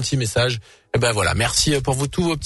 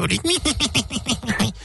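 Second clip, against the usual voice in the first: evil chuckle; 8 semitones higher than usual. Acted. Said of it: "C'est bien, hein, diabolique".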